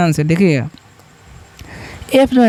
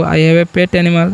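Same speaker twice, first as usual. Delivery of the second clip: slow example sentence; 3 semitones lower, much slower than usual. Shown as a demonstration. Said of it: "ऐसा भी बोल सकते हो".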